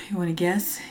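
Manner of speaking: a soft unvoiced whisper. Real, not acted. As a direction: tease the guess in a hushed whisper. Quiz question to cohost.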